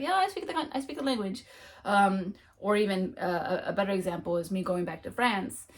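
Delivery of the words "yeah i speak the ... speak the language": mock insistence. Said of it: "it's like".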